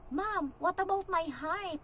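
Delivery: high, slow, hesitant little ask; timid worried question. Retold or imitated. Applicant nervously asking the interviewer about her height, high and slow. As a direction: ask it carefully, afraid of the answer.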